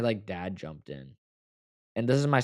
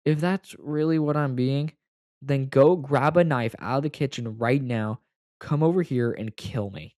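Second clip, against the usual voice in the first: retold despairing outburst; 4 semitones higher, 5 dB louder than usual. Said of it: "And I was like".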